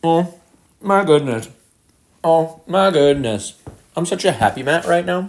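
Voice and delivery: talking with a mouthful. Taking a big bite of food while streaming a game, talking with a mouthful. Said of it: "Big bite".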